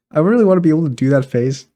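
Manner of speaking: talking through giggles; amused, laughing words. Real, not acted. Giggling about the TikTok face.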